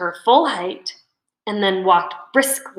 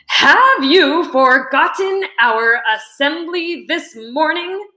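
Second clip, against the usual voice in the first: principal yelling through a bullhorn, pitched up; 7 semitones higher, 4 dB louder than usual. A narrator's reading. Principal scolding the cafeteria through a bullhorn, yelling. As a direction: call out sharply over the crowd. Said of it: "pulled the trigger on the bullhorn".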